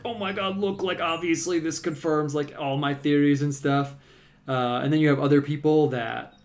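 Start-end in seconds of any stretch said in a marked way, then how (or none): 0.0-3.9 lightly put-on, higher exclaiming voice; mock vindicated critic. Painter imitating people who dunk on the Church, mildly mocking. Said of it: "take anything and be like".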